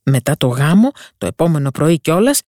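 a sea witch spelling out the curse; witch's warning. Acted. Witch warns the mermaid of pain and sea foam, ominous.

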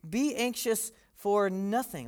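slow, matter-of-fact statement; calm slow declaration; flatly. Retold or imitated. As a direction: state it plainly, no hedging. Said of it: "Paul just says pretty flatly".

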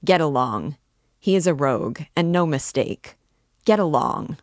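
loud, rough get-along; big porter throwing a rogue into the street, loud; gruff order. Acted. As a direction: shove him off with your voice.

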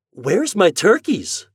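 high, slow, loud question; worried boy. Acted. Boy to the storekeeper, worried demand. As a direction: ask anxiously after your birds.

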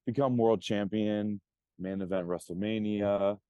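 earnest, driven promo speech; wrestling promo. Pretend. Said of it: "I let you cut a promo".

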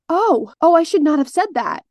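caught-out, high "oh, oh"; embarrassed gasp. Retold or imitated. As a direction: realize the blunder mid-sentence. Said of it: "And she goes".

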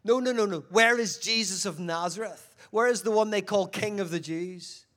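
loud, slowed demand for Jesus; demanding soldier. Acted. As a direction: bark the question like a soldier at the door.

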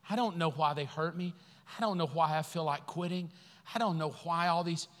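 soft, understated confession to God; subdued prayer. Acted. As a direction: lay the hurt out quietly. Voices a hurting believer praying.

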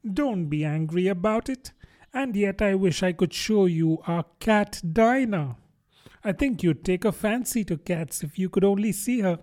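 put-on smooth things over as a well-meaning girl; mildly coaxing storybook heroine; soothing tone. A narrator's reading. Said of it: "said Alice in a soothing tone".

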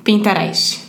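Pinterest said as pintarais; Brazilian pronunciation. Shown as a demonstration. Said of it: "como os brasileiros falam".

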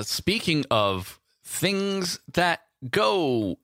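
very slow drawn-out segue; slow drawl. Pretend. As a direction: stretch each word out teasingly.

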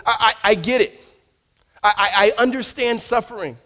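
a hint of Paul, pressed and earnest; voicing Paul.

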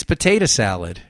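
"potato" ending in a short "uh"; Jersey pronunciation. Shown as a demonstration. Host correcting sticklers, "potato" as "puh-TAY-duh". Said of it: "It's not potato salad".

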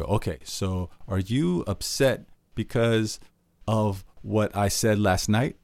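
slow, laboured repeat; repeating the guess. Shown as a demonstration. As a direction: drag the same question out again. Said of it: "you go".

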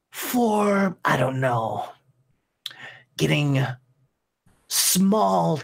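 a hint of a sadistic demon lord; menacing demon threat. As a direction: savor each cruel option. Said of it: "He goes".

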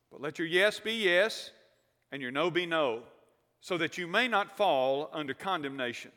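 measured, solemn Bible reading to the congregation; scripture reading. Acted. Pastor reading James to the standing congregation, solemn and measured. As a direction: read James like it matters.

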